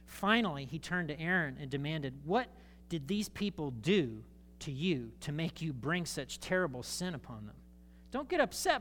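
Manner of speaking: measured Bible reading with light character voices; scripture reading. Acted. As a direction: read Aaron's excuse gently. Reads scripture dialogue.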